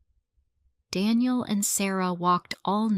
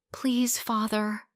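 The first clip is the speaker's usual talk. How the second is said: slow, higher pleading; begging; 4 semitones higher than usual. A narrator's reading. Sarah begging her father, slow and pleading. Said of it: "she begged".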